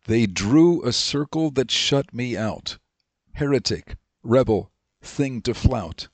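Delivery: slow, deliberate recital of a short poem; poem recitation. Acted. Teacher reciting a remembered poem to the class, slow and measured. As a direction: recite it line by line, slowly. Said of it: "It goes like this".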